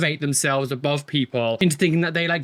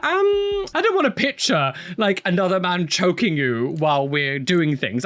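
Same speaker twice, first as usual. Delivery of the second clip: mock awkward reply. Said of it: "I'd be like".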